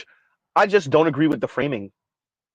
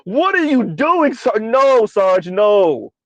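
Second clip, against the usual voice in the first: pleading disbelief; 2 semitones higher, much slower than usual. Retold or imitated. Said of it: "I'm like".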